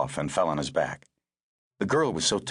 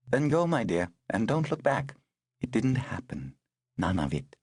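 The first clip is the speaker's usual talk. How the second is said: higher, gentle for the woman; kindly older woman; 4 semitones higher than usual. Acted. Woman sending the girl away, gentle and higher.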